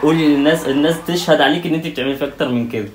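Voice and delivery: loud, high heated comeback; loud protest. Real, not acted. Husband telling wife to let viewers judge, loud and heated. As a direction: argue back hard, appeal to viewers. Husband loudly arguing back after prank.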